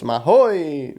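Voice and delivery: lightly imitated TV host catchphrase; a quick, mild mimicry of a showman's call; Silvio Santos. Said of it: "Bem ao estilo Silvio Santos".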